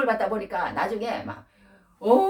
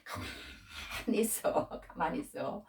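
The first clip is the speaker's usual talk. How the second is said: whispered hush, imitating her husband; mock whispered shushing, breaking into a chuckle; husband's hushing; 9 dB quieter, slower than usual. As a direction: tell her to keep still in a whisper. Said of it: "우리 남편 목사님 안 그래?".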